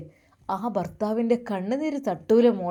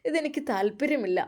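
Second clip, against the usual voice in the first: retold scolding. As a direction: push back at the husband with mild indignation. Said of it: "ഞാൻ അദ്ദേഹത്തെ ചീത്ത പറഞ്ഞു".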